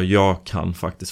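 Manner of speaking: "jag kan" leaned on, mild retold stress. Retelling the saleswoman's reply, mild stress on jag kan. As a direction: hit "jag" in "jag kan faktiskt" to mimic the saleswoman. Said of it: "hon la betoning på jag kan faktiskt".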